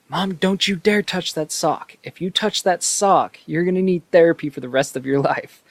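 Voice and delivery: high, loud, panicked warning to Mom; nerd yelling at mom. Retold or imitated. Player warns mom off the sock, high mock-outraged yell. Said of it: "all you see is Channing Tatum go".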